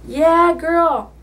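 cheering Alice on during their last dance; excited cheer. Real, not acted. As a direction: hype her up with a happy shout. Cheering while dancing friend's arms.

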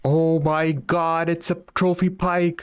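gasping with total disbelief; excited. Real, not acted. Trophy pike finally caught.

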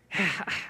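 soft sigh of giving up, retold; acted weary sigh. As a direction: let out a quiet, resigned mock sigh. Retelling giving up on test.

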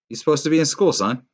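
loud, high scolding mom; stern mother. Acted. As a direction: scold him like a worried mother. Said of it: "from his mother".

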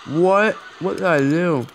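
loud, high, disbelieving what; stunned at a blunder; shocked. Real, not acted. Shocked at own game blunder.

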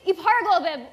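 bibliography said backwards; backwards speech. Shown as a demonstration. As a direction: reverse the word sound by sound. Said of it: "I could say any word backwards".

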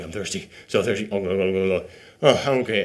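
low, soft, parched groaning; a lightly voiced thirsty soldier gasping. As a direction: croak it out like a dying man of thirst. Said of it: "'cause he's like".

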